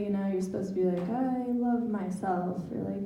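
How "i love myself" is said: mock affirmation. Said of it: "phrases that she told me to say".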